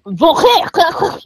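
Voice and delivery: harsh throaty hack to mimic French; mock throat clearing. Shown as a demonstration. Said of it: "That was Arabic".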